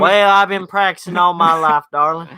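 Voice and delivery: hammed-up Southern belle answer; Southern accent. Friend mocks the pastor's syllables, Southern accent.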